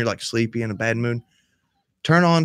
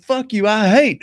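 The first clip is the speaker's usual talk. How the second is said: mock angry answer; 8 semitones higher, 5 dB louder than usual. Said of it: "I was like".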